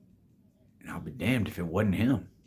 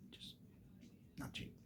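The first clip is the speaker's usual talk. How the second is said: a hushed wry aside to the audience; quiet aside; 25 dB quieter than usual. Real, not acted. Telling viewers grocery prices, hushed aside. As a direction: drop almost to nothing on not cheap.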